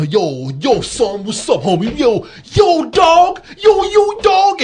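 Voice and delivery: hyped street slang, rising to a high shout; mock American wigger. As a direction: ham up a yelling wannabe gangster. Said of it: "'cause they used to know".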